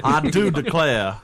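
put-on slow, lightly done Southern gentleman accent. Mocking a white-suited porch sipper, a mild Southern accent. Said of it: "the worst Southern accent".

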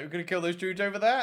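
fast, high eager question; eager call to fight. Retold or imitated. Retelling the charge invitation to teammates, fast and high. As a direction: rush it out keen to charge. Retake of same battle line.

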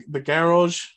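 garage in a half-tried Boston accent. Shown as a demonstration. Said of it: "I'm trying to find a way to say it in a Boston accent".

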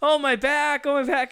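high-pitched mock complaint; faking back pain. Client pretending to be injured in the prank, mock pain. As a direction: play up a hurt back. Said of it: "the guy's acting like".

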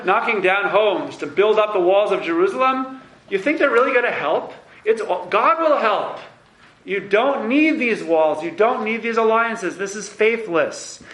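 prophet blasting the king. Retold or imitated. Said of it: "It says".

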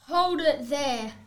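loud, slow stop order; halting the story. Acted. Wolf stops the storyteller, loud and slow. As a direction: cut her off firmly.

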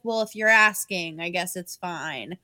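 slow, dropping, reluctant give-in; grudging consent. Retold or imitated. Grandma giving in to his plea, grudgingly.

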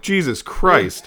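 slow, high, laughing groan; laughing exasperation. Retold or imitated. Looking back at his childhood photos, slow laughing. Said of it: "I'm like".

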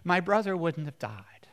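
loud high cry fading to a whisper; anguished reproach. Acted. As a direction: grab him and cry it out. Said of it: "Taking him by the tunic and saying".

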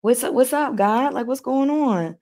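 casual New York greeting to God; a hint of playful New Yorker; New York accent. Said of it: "That's my New York accent".

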